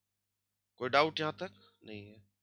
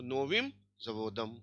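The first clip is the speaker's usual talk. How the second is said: नोविम जवोदम said slowly, each syllable spelled out; drawn-out teacher demo of नोविम जवोदम; slow model reading; 3 semitones lower, 4 dB quieter, much slower than usual. Shown as a demonstration. Teacher models the Russian phrase for the class, slow and deliberate. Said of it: "नोविम जवोदम, slow model reading".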